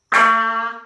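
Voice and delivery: "Habilidade" in five beats with clear pauses between; clapped syllables. Shown as a demonstration. Teacher counting claps with pupils, syllable by syllable. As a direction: separate "Habilidade" fully: ha... bi... li... da... de. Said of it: "Quantas vezes eu bati palmas?".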